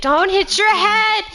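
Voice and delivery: called out high and loud; calling out. Acted. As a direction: call it after them across the room. Calling after someone leaving.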